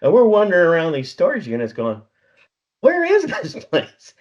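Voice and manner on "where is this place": high, slow, laughing question; lost and laughing, drawn out high; laughing bewilderment. Retold or imitated. Lost among storage units.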